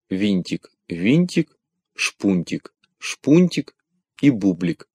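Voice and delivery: machine replay, lisping and nasal; sh for s, nasal and mechanical. Acted. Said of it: "зашепелявил гнусавым голосом".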